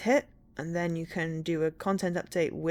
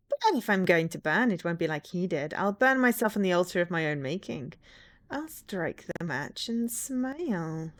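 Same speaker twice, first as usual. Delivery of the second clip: villain voice. Pretend. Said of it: "my villain voice".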